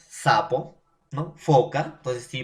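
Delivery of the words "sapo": "Sapo" with the opening S held as an airy hiss; fricative S. Shown as a demonstration. Teacher showing students a fricative, airy held S in "Sapo". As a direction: demonstrate the escaping air on the S of "Sapo". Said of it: "son fonemas fricativos".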